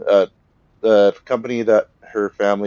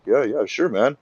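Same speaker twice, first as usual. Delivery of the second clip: eager; 7 semitones higher, 3 dB louder than usual. Retold or imitated. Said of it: "And Wada's like".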